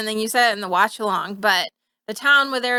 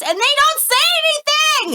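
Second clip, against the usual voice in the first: exasperated; 4 dB louder, much faster than usual. Real, not acted. Outraged at the show.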